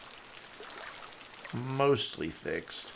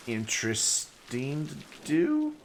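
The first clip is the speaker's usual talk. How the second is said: slow, halting words ending in an accidental crack; 4 semitones higher, slower than usual. Real, not acted. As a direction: voice cracks upward on the last word. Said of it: "Voice crack?".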